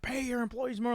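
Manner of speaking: high mock yell at normal volume; imitated yelling. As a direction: lighter replay of a customer's holler. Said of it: "he kept yelling that".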